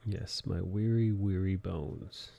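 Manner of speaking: put-on weary old man.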